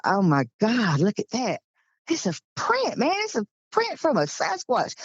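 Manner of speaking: stunned at a giant footprint; shocked disbelief. Retold or imitated. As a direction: gasp it out like you can't believe your eyes. Spotting a huge footprint.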